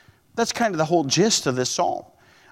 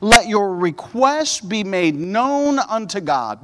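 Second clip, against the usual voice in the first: slow scripture reading; slower than usual. Acted. Scripture read slowly.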